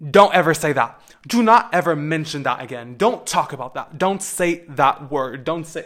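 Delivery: an angry father forbids the word; dad's angry order. Retold or imitated. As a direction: bark the ban at first, then ease off. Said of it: "my dad literally told me".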